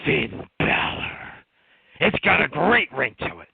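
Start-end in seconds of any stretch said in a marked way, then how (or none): 0.1-1.1 Vince impression. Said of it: "the crackhead voice trying to be Vince".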